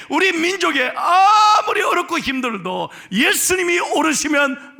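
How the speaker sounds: loud, high, rousing preacher's cry; full-force preaching. Acted. Pastor blessing his congregation, loud rousing preaching. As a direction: proclaim the blessing over the church.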